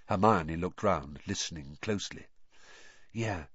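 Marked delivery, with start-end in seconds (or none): 3.1-3.4 softer, hushed reply. Acted. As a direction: keep it down. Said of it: "said Harry softly".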